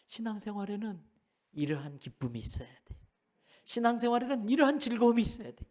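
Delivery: usual speaking voice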